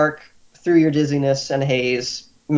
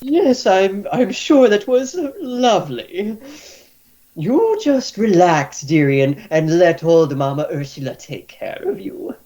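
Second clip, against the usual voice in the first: high matron voice fading to a whisper; soothing healer; 5 semitones higher than usual. Acted. Healer soothing the drunk patient to sleep. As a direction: lull him to rest.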